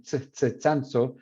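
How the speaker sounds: Tsanzo with a ts at the start; Chilean ch. Shown as a demonstration. Teacher showing the prestige ts in Tsanzo. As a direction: Tsanzo said with ts, not sh. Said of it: "the working class saying Shanxo".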